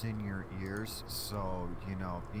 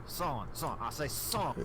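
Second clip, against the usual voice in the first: Foghorn Leghorn; slower than usual. Retold or imitated. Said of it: "you can also go with Foghorn Leghorn".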